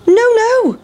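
very high squeaky refusal; sing-song cheeky no; pancake refusing. A narrator's reading. Pancake taunting the chasers, squeaky refusal. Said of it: "cried the big pancake".

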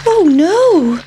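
high, small pancake voice; worried pancake. A narrator's reading. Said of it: "thought the pancake".

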